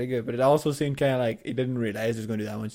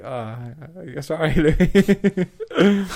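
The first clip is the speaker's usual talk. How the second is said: laughing mock apology; much slower than usual. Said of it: "I'd be like".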